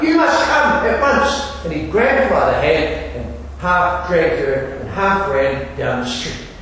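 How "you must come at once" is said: much higher and slow, pressing; lightly acted urgent demand; urgent insistence. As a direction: insist she drop everything now. Messenger insists she comes.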